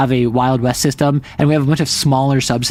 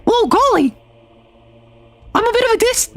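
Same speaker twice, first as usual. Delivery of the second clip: squeaky cartoon falsetto; highest voice. Shown as a demonstration. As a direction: push right to the top of your range. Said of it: "Highest voice you can do?".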